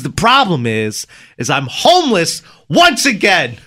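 mild mock yell building on "once again"; retold yelling. Homeless man to the owner, retold as a mild yell. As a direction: raise it into a half-hearted imitated outburst. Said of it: "He starts yelling".

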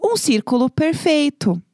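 voz de professora, aguda e lenta; instructing voice. Retold or imitated. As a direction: mimic a teacher calmly guiding the class. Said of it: "falando assim".

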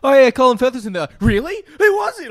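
high-pitched imitation of curious in-laws; mock high voice, asking who; retold in-law chat. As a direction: quote the puzzled questions up high. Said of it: "I said to Mon's parents".

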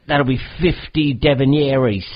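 hustler naming a price in mock British; badly faked British street patter; bad British accent. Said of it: "my British accent is terrible".

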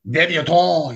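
mock-grand drawn-out delivery; affected voice. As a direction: draw out "Debutante" in a put-on voice. Playfully repeats word in affected voice.

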